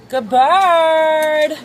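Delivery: high, drawn-out praise for a bird; pet talk. Real, not acted. Praising the rooster in a high pet voice. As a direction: coo it to the chicken.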